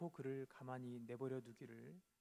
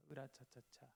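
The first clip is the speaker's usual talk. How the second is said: heave-ho cry; 5 dB quieter than usual. Pretend. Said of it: "힘을 낼 수 있는 그 재치의 말".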